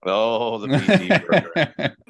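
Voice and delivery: real laughter breaking through; cracking up remembering the workouts; laughing. Real, not acted. Laughing while recalling PT program.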